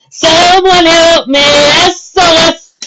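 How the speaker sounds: high, loud, slow cry for help; desperate cry for help. A narrator's reading. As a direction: plead desperately under the snow. Pony buried in avalanche.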